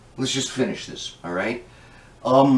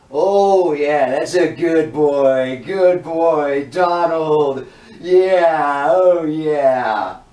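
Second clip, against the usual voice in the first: lewd mock praise; 5 dB louder, much slower than usual. Egging Donald on, mock encouragement.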